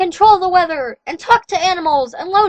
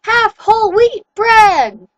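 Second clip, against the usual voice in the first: high, loud, slow ranting werewolf; furious rant; 6 semitones higher, 7 dB louder, slower than usual. A narrator's reading. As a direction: rage at the captive half-breed. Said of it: "He was so angry he was jumping".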